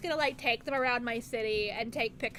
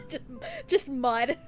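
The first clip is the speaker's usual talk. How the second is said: laughing; 4 dB louder than usual. Real, not acted. Laughing at a joke name.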